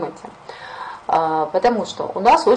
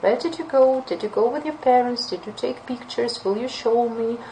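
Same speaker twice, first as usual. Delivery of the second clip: higher, eager questioning; curious follow-ups; 5 semitones higher than usual. Shown as a demonstration. Teacher demoing curious questions to a friend. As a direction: pepper them with keen questions. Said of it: "ask follow-up question".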